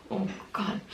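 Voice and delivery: faint, voiceless sigh of distress; hushed and tearful; overcome. Real, not acted. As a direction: barely get it out, holding back tears. Overcome, trying not to cry.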